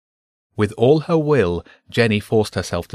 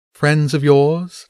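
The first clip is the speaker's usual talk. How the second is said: slow, louder, pitched-up cat purr; a slow, teasing purr; purring Empress; 6 semitones higher, 5 dB louder, much slower than usual. Acted. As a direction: stretch it out like a sly cat. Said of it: "the Empress purred".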